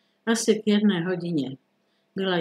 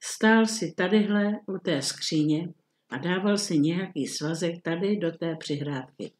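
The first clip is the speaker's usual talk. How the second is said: ordinary delivery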